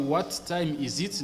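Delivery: What said "wa" linked to time; T dropped. Shown as a demonstration. Teacher showing learners the native linking. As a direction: drop the T of What and run into time. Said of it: "Ne prononcez pas le T du mot what".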